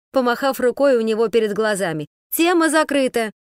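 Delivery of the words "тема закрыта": loud, high shout. Acted. Sashka yells to stop the man's nonsense, shouting. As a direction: slam the topic shut. Continues the yell.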